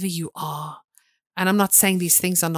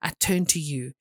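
louder, proclaiming faith declaration; bold declaration; 4 dB louder than usual. Retold or imitated. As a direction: declare it boldly like a vow. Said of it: "walked in and said".

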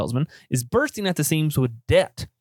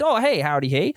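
put-on old southern gentleman; 4 semitones higher than usual. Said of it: "And I can talk like a Southern gentleman".

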